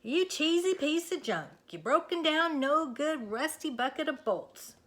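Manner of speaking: loud, high, hammed-up scolding; mock tirade. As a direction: curse the tractor like the farmer. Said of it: "the farmer shouts".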